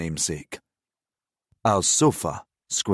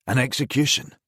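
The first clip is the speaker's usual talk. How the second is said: excited cry; 5 semitones higher than usual. Acted. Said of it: "was the cry".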